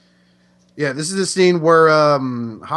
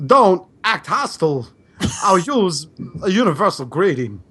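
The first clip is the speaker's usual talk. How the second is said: Christopher Walken; 4 semitones higher than usual. Acted. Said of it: "hear the speaker do Cups War Stories as Christopher Walken".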